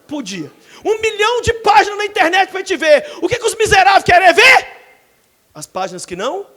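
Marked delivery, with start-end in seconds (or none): 0.8-4.8 loud, higher rising challenge; preaching shout. Acted. Preacher on human sin, loud climax. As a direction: hammer the point home.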